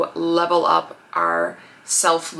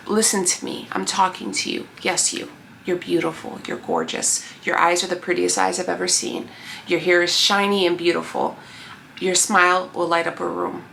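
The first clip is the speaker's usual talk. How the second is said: tag; 4 dB quieter than usual. Real, not acted. Earnest direct reassurance to viewer.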